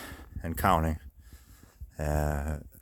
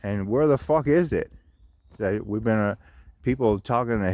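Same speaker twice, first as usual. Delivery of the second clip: exasperated demand; 4 semitones higher than usual. Retold or imitated. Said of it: "I'm like".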